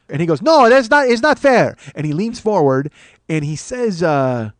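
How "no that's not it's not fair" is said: loud, high-pitched protest; outraged seatmate. Retold or imitated. Passenger protesting reclined seat, outraged seatmate. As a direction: burst out indignantly over the injustice.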